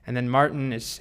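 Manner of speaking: ordinary delivery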